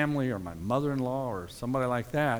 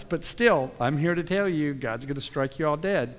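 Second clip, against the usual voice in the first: gleeful doom preacher; 3 dB louder than usual. Retold or imitated. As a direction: gloat as you condemn them. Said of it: "with a little bit of a smile on his face going".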